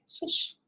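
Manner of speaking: breathy whooshing swish; a soft whooshing swish; swish sound. Shown as a demonstration. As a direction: make the swish sound like a curtain opening. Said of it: "swish it away as you say".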